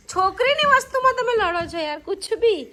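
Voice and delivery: high, laughing demand to hand it over; playful tussle. Real, not acted. Mother takes the toy from squabbling sons, laughing. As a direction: tease them while grabbing the toy. Mother grabs butterfly from fighting boys.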